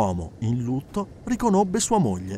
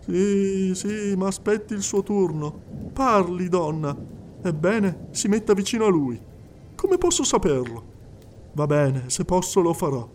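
murmured aside; 4 semitones higher than usual. Acted. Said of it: "bisbigliava continuamente con qualcuno".

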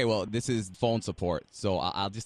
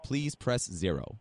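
phone menu voice; 3 dB quieter, slower than usual. Acted.

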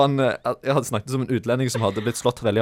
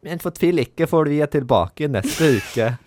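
higher, put-on baby talk, close to cracking up; 4 semitones higher than usual. Presenter resuming his penalty sign-off, mock baby talk. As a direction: try baby language with a lifted pitch. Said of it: "på babyspråk".

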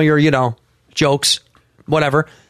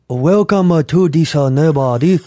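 halting fake Maori accent; improvised, badly faked Maori greeting; 3 semitones lower than usual. Shown as a demonstration. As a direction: attempt a Maori accent, groping for words. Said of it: "You want Maori?".

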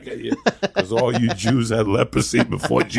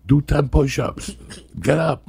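barking orders; 4 semitones higher than usual. Pretend. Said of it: "barking orders at you".

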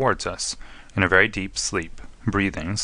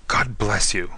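understated fervent thanks; a touch of passionate gratitude; passionate cry; slower than usual. Acted. Prisoner thanking Holmes for his help, mildly passionate. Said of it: "cried the prisoner passionately".

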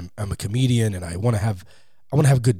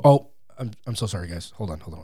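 feigned apology; 4 semitones lower, faster than usual. Retold or imitated. Presenter faking a slide mistake to his audience, sheepishly apologetic. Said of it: "It's very believable".

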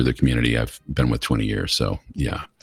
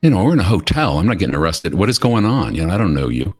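panicked disbelief; 4 semitones higher, 3 dB louder than usual. Retold or imitated. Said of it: "my brain is shutting down".

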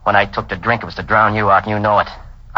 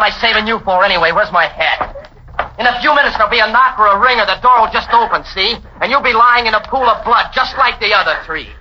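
taunting; 7 semitones higher than usual. Acted. Man taunts her as he leaves.

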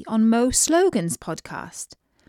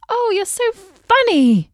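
much higher, slow and delighted; delighted exclamation; 12 semitones higher, 6 dB louder than usual. A narrator's reading. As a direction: gush with delight. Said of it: "she exclaimed".

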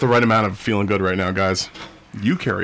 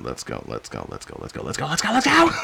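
building hype. Acted. Host hyping the start of the episode, building excitement. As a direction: pump up the start of the show.

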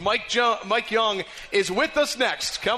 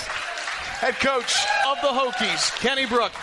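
higher, slow, stretched announcer shout; announcer call; 5 semitones higher, slower than usual. Acted. Radio host sending off the coach to listeners, announcer shout. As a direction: boom the name out like a big arena intro. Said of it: "host sign-off announcement".

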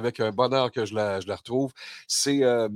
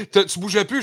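laughing; 7 semitones higher, 4 dB louder than usual. Real, not acted. Host laughing at his joke.

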